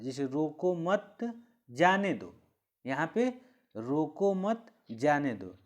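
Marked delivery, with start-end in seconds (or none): 0.3-2.3 slow रोको मत, brief pause, जाने दो; comma pause. Shown as a demonstration. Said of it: "अल्प समय के लिए वहाँ पे रुकना पड़ता है". 3.7-5.5 रोको मत lifted, then जाने दो dropping; comma pause. Shown as a demonstration. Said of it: "ऐसे लगता है".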